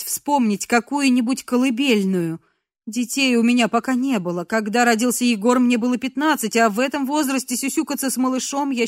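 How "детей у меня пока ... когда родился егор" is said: ordinary delivery, nothing marked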